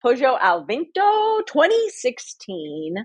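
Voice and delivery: slow, savoured Italian accent on the wine name. Shown as a demonstration. Announcing her wine of the week in an Italian accent. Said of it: "Is that your Italian accent?".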